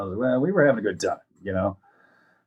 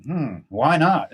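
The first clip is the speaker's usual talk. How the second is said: slow, high-pitched mock pondering; drawn-out "hmm", pitched up in mock innocence; curious child; 6 semitones higher, much slower than usual. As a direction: imitate a kid wondering aloud. Voices a curious child ignoring warning.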